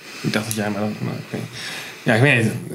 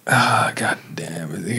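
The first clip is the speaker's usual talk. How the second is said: whispering; 6 semitones lower, 7 dB quieter, much slower than usual. Real, not acted. Frustrated at a hard guess.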